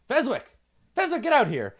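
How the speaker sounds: high shout across the camp; calling out. Acted. Commander shouting for Fezwick across camp, high shout. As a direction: bellow for the wizard.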